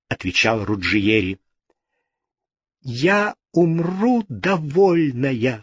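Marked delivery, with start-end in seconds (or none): 2.8-5.6 tearful cry. A narrator's reading. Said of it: "вскричала Джиневра, со слезами".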